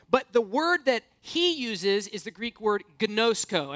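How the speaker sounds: gnosko said slowly as kuh-NO-sko; over enunciating. Shown as a demonstration. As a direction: draw out gnosko syllable by syllable. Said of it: "Everybody say gnosko".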